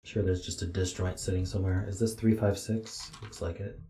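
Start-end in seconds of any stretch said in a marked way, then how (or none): 3.2-3.8 talking through a yawn; mid-yawn, words stretched. Real, not acted. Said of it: "I'm sorry for yawning".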